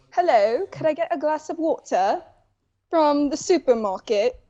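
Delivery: put-on polite mild English accent; a light posh English accent. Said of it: "try to do your best English accent".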